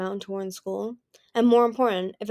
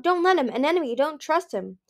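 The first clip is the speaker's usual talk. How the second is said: much higher, urgent warning; pleading with her in his head; frantic inner plea; 7 semitones higher, 3 dB louder than usual. A narrator's reading. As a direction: Turtle silently urging Anemone, higher and louder. Turtle's frantic warning thought.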